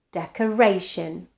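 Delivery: "decoration" stressed on -ra-; shifted stress. Shown as a demonstration. Teacher showing how stress moves, "decoration" stressed on -ra-. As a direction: lean on the "ra" in "decoration". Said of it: "stress changes position in the syllable".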